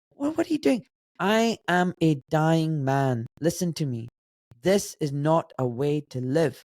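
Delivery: deliberate, measured plea to a son; imitated grave dad. Dying father warning his son about his life, gravely insistent. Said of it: "my dad goes".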